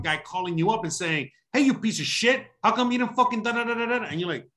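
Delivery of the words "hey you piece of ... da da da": mock rude caller. Imagined Target guy yelling insults.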